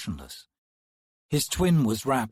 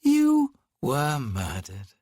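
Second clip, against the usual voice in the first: lightly said; 2 semitones higher, 3 dB louder, slower than usual. Acted. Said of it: "the man said lightly".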